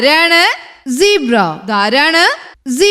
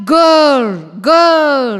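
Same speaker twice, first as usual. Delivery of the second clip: tiger roar; much slower than usual. Shown as a demonstration. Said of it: "tiger എങ്ങനെയാ കരയുക?".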